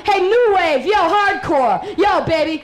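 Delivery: calling out. Acted. Calling out to crowd.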